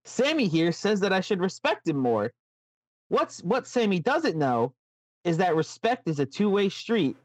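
gentle, sing-song puppet-show host; Funhouse host. Acted. Host talking about Sami's respect in a light, sweet voice. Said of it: "Why do I keep doing that".

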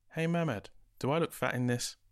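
high, loud anxious asking; a fretful friend fishing for reassurance; insecure friend. Acted.

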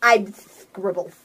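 lightly voiced slow, low cat; simple friendly cat. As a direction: draw it out like a simple-minded pet. Voicing Scribbles introducing himself.

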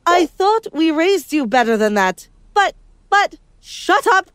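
a mother losing it at her daughter; furious mom. Acted. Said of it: "my mom screamed".

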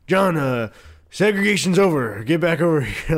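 lightly voiced older teacher. Gym teacher calling John back over, older-teacher voice. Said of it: "he would kinda talk like this".

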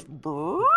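mock fart noise. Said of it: "she just goes".

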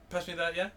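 rising "yeah" tacked on the end; British-style tag question. Shown as a demonstration. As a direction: lift "yeah" as a friendly question. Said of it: "it's like in Britain, people say yeah".

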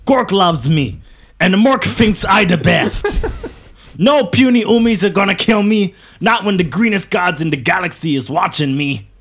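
a hint of a shouting orc. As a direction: boast like a cocky orc warboss. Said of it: "I've got one that I'm gonna do".

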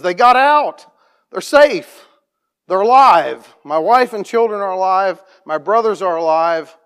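high, loud overjoyed shout; retelling a man's joyful shout of relief; joyful cry. Retold or imitated. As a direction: burst out with relief. Man hugs pastor, family safe.

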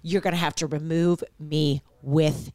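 deliberate mock ultimatum, slowing at the end; acted standoff. Acting out a mother guarding her son's room, firm standoff. And scene.

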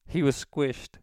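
high put-on voice; prank phone voice. Prankster explaining the death to the caller, high put-on voice. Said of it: "I do it in this voice".

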